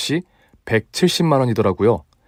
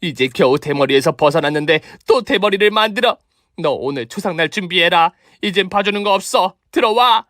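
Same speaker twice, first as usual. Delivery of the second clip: rising furious threat, higher pitch; angry threat; 7 semitones higher than usual. Acted. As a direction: threaten her, getting fiercer. Angry mother threatens mother-in-law. (화난 위협)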